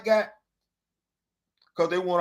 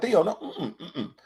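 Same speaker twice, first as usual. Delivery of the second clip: mock headshake; 4 dB quieter, slower than usual. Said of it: "Y'all be like".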